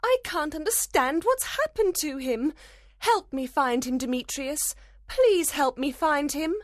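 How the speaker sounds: put-on very high, pleading young woman; distraught, high-pitched plea; desperate. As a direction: beg frantically for help. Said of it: "Hermia cried desperately".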